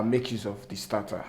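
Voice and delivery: ordinary delivery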